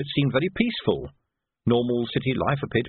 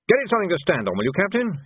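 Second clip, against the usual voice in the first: higher, crisp command; a weary order to the captain; officer giving an order; 8 semitones higher than usual. Acted.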